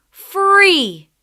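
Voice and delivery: loud, high cry of relief; freed lion shouting in relief, loud and happy; joyful shout. Acted. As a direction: shout it with joy. Lion tumbles out of net.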